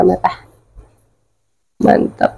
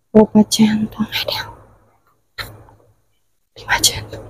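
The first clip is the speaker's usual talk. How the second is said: hushed counting whisper; 6 dB quieter than usual. Real, not acted. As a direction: breathe the count, no voice.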